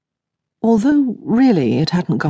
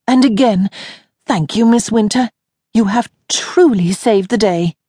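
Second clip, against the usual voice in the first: put-on gracious young lady; 5 semitones higher than usual. Honoria thanks Anne.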